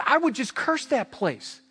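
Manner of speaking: angry cursing. Retold or imitated. Pastor retelling Rich cursing the strip club, angry shout. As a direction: shout the curse down on the place. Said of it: "he'd be all mad and angry".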